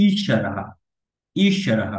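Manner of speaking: ঈশ্বরহ with a held, pressed first vowel; long i. Shown as a demonstration. Teacher contrasting short and long vowels, ঈশ্বরহ with long i. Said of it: "এটাকে একটু দীর্ঘ করে".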